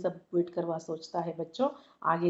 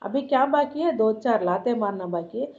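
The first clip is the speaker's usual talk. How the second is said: raised, wounded husband's tirade; bitter outburst. Acted. Husband complains to wife of his humiliation, bitter and angry. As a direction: hurl the grievances at her. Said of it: "ऐसा बोलता है".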